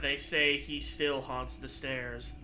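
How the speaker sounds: spooky legend. Acted.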